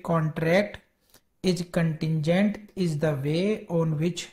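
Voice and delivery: reading the law aloud very slowly, word by word; slow statute reading. Acted. Teacher reading section thirty four to students, slow dictation. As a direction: dictate each phrase of the section so students can follow.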